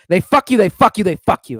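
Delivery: lightly voiced dad griping over the bills; sounding like Dad. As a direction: mimic Dad's muttered complaint about the bills. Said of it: "Now you sound like Dad".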